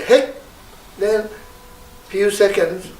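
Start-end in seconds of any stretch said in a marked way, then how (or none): 0.0-0.3 "Hey" called out high and loud; loud ritual syllable "Hey". Shown as a demonstration. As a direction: shoot "Hey" upward. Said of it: "when you say".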